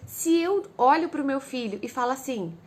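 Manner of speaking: normal talking voice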